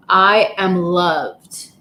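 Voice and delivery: slow, heartfelt 'I am loved'; heartfelt affirmation. Shown as a demonstration. Guiding the live audience through affirmations, slow and heartfelt. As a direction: say it with your heart, slowly. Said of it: "we need to say that with a lot of feelings".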